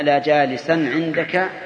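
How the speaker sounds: slow, with -an sounded on جالسا; accusative ending. Shown as a demonstration. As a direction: draw out جالسا, ending it in a clear -an. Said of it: "بالنصب، لأنها شبيه بالمضاف".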